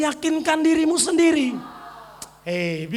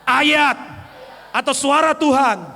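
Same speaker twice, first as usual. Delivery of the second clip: firm, raised voice; loud declaration. Shown as a demonstration. Preacher leads congregation in loud declaration. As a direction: proclaim it boldly.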